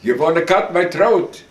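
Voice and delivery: high and loud, a suspicious accusing cry; high-pitched voice. Retold or imitated. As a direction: jump up high and loud, catching him out. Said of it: "high on the voice".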